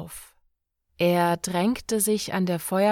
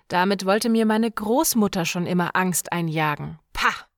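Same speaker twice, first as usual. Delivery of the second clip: higher, mocking scoffing voice; scornful young man; 3 semitones higher, faster than usual. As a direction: sneer at the old man's fears. Björk mocking old man.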